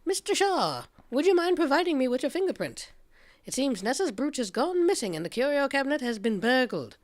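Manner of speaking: a big Southern gentleman voice; Foghorn Leghorn Southern accent. Acted. Detective player questioning the lawyer: hammed-up Southern accent. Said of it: "And Foghorn Leghorn here".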